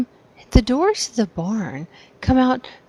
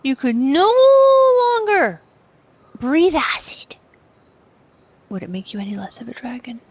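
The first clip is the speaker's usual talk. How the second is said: hushed riddle; 4 semitones higher than usual. Acted. Riddle posed to the dragon.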